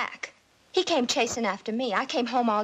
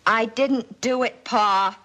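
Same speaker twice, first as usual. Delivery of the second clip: louder denial; 2 semitones lower, 4 dB louder, slower than usual. Acted. Girl denies, father shouting.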